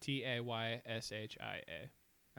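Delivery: slow, deliberate letter-by-letter spelling. Shown as a demonstration. Helping her friend search the name, slow spelling. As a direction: spell "T A Y S H I A" slowly, one letter at a time.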